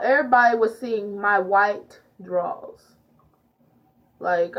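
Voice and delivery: ordinary delivery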